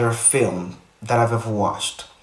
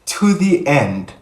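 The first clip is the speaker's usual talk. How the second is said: higher, giggling through the words; laughing; 6 semitones higher than usual. Real, not acted. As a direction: crack up at yourself while trying to go on. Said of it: "I'm sorry".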